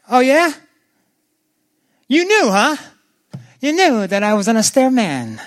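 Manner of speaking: high, animated Jewish-inflected retort, heavy rises; sarcastic Yiddish-flavoured "oh yeah? you knew, huh?"; a knowing Jewish storyteller throwing the words back; Jewish way of talking. Shown as a demonstration. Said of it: "said like, if you're Jewish".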